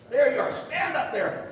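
loud, high call across the room. Real, not acted. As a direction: call out to someone in the crowd. Singles out a friend in audience.

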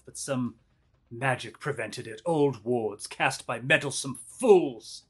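ominous voice ringing out; villain voice. Acted. Voice rings out again.

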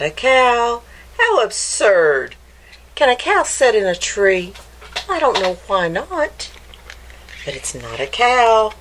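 put-on lively storybook read-aloud for kids; picture-book narration voice; reading to children. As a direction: read it like story time for little ones.

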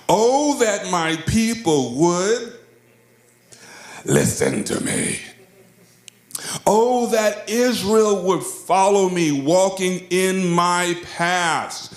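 slow, impassioned plea as God; pleading scripture read-out. Acted. God's plea read aloud with passion.

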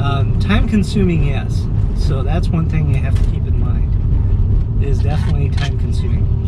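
talking while the car shakes over bumps; on a bumpy road. Real, not acted. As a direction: voice jostled by a bumpy drive. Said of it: "Sorry for the bumpy road".

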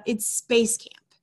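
slow unvoiced whisper. Avery whispering his fib to Bart. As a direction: breathe it slowly, a nervous secret. Avery lies to the bad guy.

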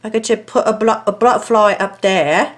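playful put-on English accent. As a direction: keep up a mock English accent. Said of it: "I have an English accent all, all of a sudden".

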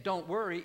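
second step of a rising refrain. Shown as a demonstration. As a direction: build it up a step. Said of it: "if Saint Paul is saying".

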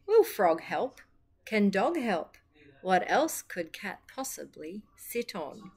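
lively picture-book read for little listeners; reading a blurb to children. Acted. Storyteller reading the back cover to children, lively. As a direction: sell the blurb to a room of kids.

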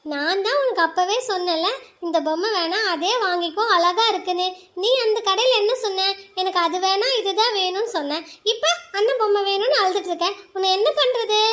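scolding mother. Acted. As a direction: chide her like a tired mother. Mother figure scolds crying child. (அழும் மகளை அலுத்துக்கொண்டு கண்டிக்கும் அம்மா)

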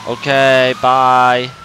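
loud farewell shout; calling out. Real, not acted. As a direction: call it across the house. Calling goodbye to mom.

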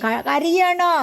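high, sudden concerned question; surprised concern. Real, not acted. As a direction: catch the pet crying. Dog seems to be crying. (അതിശയത്തോടെയുള്ള ആകാംക്ഷ)

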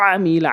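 "আমিলা" opening on a squeezed-throat ain; correct ain. Shown as a demonstration. Teacher reminding learners of ain, throaty start on "আমিলা". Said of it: "আইন উচ্চারণ করবেন".

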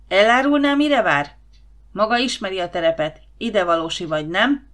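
hangos, magas, türelmetlen rászólás; ingerült főnök. Acted. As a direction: told le az őrt. (a főnök ingerülten rászól az őrre)

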